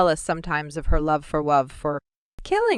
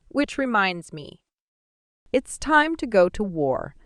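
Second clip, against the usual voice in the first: much higher, mocking villain voice; the sorcerer purrs about love as a weakness, pitched up; sinister sorcerer; 4 semitones higher than usual. Sorcerer taunts his daughter about her mother, high and mocking.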